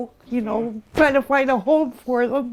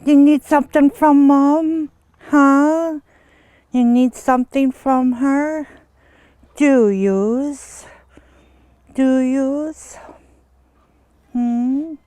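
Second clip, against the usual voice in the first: talking to her horse; 4 semitones higher, slower than usual. Real, not acted. Owner asking her horse Cookie what she needs, coaxing. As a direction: coax the horse, pitched up.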